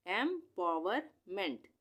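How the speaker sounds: एम्पावरमेंट said slowly, each part drawn out; slow blended reading. Shown as a demonstration. Teacher slowly joins एम्पावरमेंट for the class. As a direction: join एम्पावरमेंट slowly after spelling it. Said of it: "उसके बाद एम ई एन टी".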